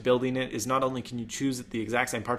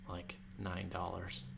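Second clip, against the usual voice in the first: mock lowball price; 4 semitones lower, 15 dB quieter, slower than usual. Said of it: "Just kidding".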